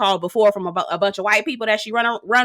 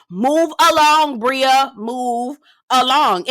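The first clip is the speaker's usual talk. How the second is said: slow, drawn-out dismissal; slow mocking send-off; dismissive; 4 semitones higher, 3 dB louder, much slower than usual. Real, not acted. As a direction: wave her off, slowly and loudly. Dismissing Bria on the show.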